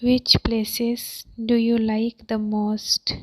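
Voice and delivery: deliberate, in two separate phrases; chunked teaching repeat. Shown as a demonstration. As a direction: pause after "Which places".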